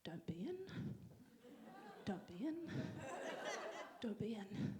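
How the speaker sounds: low, hushed, repeated under the breath; will the door to stay shut; pleading whisper. Retold or imitated. At Hazel's door, praying nobody answers, whispered. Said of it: "I remember doing that knock".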